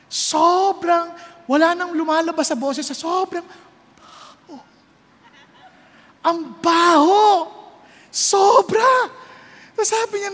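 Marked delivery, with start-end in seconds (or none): 4.0-4.6 whispered stink. Acted. Whispered word of stench. 6.2-9.1 loud, high, disgusted cry of the stink; disgusted exclaim. Acted. Preacher acting out the stench.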